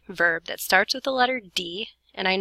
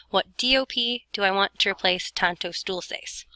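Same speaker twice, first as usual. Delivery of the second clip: whispering to herself. Real, not acted. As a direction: whisper the question to yourself. Asking herself aloud.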